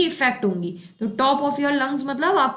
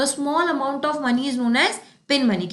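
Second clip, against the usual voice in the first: slow teaching read; much slower than usual. Shown as a demonstration. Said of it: "teacher gives English meaning".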